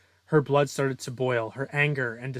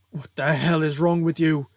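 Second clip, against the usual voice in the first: raised, louder demand; alarmed outburst; 3 semitones higher, 6 dB louder than usual. Acted. Shaken villain scrambling up before the hero, louder and indignant. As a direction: throw it out in outrage.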